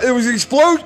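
lightly voiced pompous prick; condescending roommate. Mocking roommate's food talk, smug and quick. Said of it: "this is how I hear him".

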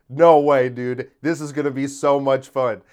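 bursting out with a loud, giddy thrill; loud, delighted glee; giddy excitement. Retold or imitated. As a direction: sound thrilled to bits, like a kid who got his wish. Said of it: "I got so happy and excited".

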